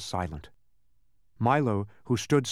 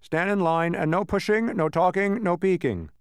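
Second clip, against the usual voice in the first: brisk, raised officious voice; a higher-pitched little official giving orders; officious census taker; 5 semitones higher, 3 dB louder than usual. Acted. Census taker marshalling visitors into line, officious.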